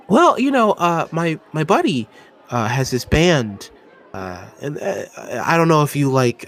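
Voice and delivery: put-on awkward, stammering young dwarf musician; nervous dwarf. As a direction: fumble through asking for her number. GM voicing nervous dwarf bandmate.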